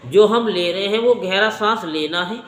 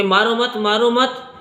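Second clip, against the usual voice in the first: retold plea; 3 semitones higher than usual. Woman stopping villagers from beating the man who saved her, retold plea. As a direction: play the woman hurriedly begging them to stop, voice lifted.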